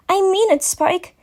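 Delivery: lightly stern mother figure; stern mare. A narrator's reading. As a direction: put your foot down gently. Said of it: "in a more stern tone".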